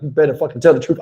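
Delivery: low, soft menacing threat; stepdad threatening. Retold or imitated. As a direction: lean in and threaten the boy quietly. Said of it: "And he like".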